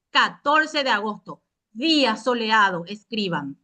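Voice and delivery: curt classroom commands; strict teacher. Pretend. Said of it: "léase con tono cortante y autoritario".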